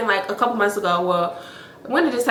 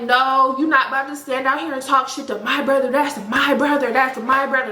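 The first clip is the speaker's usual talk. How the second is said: higher voice, "my" in "my brother" punched each time; imitated emphatic protest; 3 semitones higher than usual. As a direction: mimic her insisting, leaning on "my" in "my brother". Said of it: "putting the emphasis".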